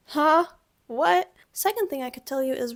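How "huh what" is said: high, loud Huh? What?; startled huh. Shown as a demonstration. Teacher reacts to professor dancing in pajamas, startled. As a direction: jolt in disbelief.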